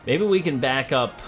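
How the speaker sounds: normal talking voice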